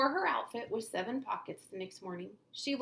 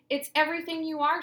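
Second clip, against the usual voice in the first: gushing praise; 8 semitones higher, 9 dB louder, faster than usual. Acted. Mother comforting daughter.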